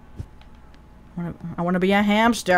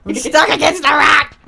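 loud laughing protest; laughing yell; 5 semitones higher, 4 dB louder than usual. Real, not acted. Pushed and stuck, laughing.

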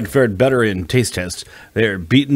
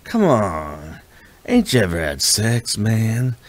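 a different gruff man's voice; driver's voice; slower than usual. A narrator's reading. Bus driver teasing the stuck woman, exasperated.

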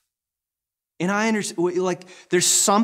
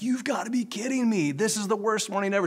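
high, exasperated cry of disbelief; 7 semitones higher than usual. Retold or imitated. A father at the hospital door, no wheelchairs, exasperated high disbelief. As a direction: throw up your hands in disbelief.

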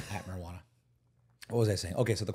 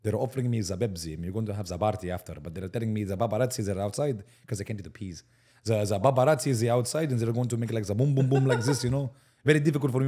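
put-on Arabic accent. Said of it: "the Arabic, like".

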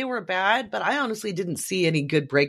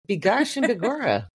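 higher, hammed-up stage Irish; mock Irish accent; 6 semitones higher than usual. Co-host joking about distant Irish roots, mock Irish accent. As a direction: put on a jokey Irish lilt.

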